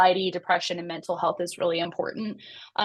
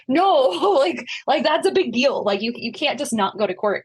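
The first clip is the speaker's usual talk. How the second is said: urgent protest; 5 semitones higher, 4 dB louder than usual. Retold or imitated. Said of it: "it's like".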